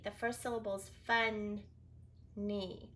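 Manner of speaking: fun-ny split into two slow syllables; slow syllable demo. Shown as a demonstration. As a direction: chunk fun-ny apart. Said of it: "You should have got funny".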